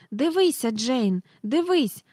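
put-on high, eager boy calling his sister; a boy yelling to make her look; excited boy shout. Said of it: "закричав він". (високий схвильований вигук хлопчика)

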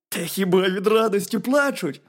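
high, loud hedgehog voice; hedgehog character. A narrator's reading. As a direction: urge the bear as a lively little hedgehog.

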